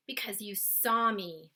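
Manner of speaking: a big friendly giant explaining himself; BFG's voice. Acted. Giant answering the girl's question. BFG voiced in read-aloud.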